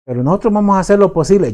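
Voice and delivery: doctor delivering a grim diagnosis, brisk and blunt. Retold or imitated. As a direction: rattle off bad news like a cold doctor. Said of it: "le dice".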